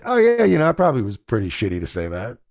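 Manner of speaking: quick, mumbled mock apology from the friend; imitating a sheepish friend. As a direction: toss off the friend's grudging admission. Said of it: "and you're like".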